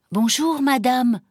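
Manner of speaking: polite greeting. Acted. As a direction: greet a lady as a well-mannered boy. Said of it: "la salua poliment Jacques".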